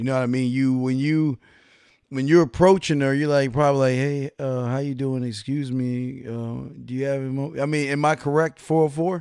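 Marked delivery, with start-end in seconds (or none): 3.9-7.6 put-on defeated tone, quieter and slower. Mocking how the listener approaches a woman, imitating a defeated voice. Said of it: "you sound so defeated".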